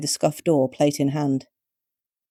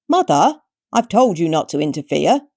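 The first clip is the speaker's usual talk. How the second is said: exasperated son; 2 semitones higher, 4 dB louder than usual. A narrator's reading. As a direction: tell off a meddling parent. Son scolding meddling mother.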